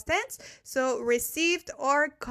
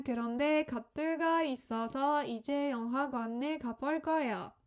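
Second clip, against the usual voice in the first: fast Korean read; much faster than usual. Shown as a demonstration. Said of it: "let me just repeat one more time".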